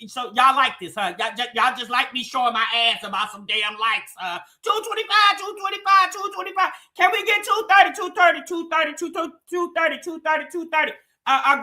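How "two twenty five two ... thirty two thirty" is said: mock auctioneer calling bids, a touch higher. Host begging chat for likes, light mock auction call. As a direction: rattle off the bid numbers like a playful auctioneer. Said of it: "I sound like I'm at an auction".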